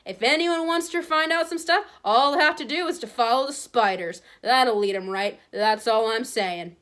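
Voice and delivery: loud, deliberate announcement; careful hint. A narrator's reading. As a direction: announce it pointedly for hidden listeners. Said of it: "said carefully".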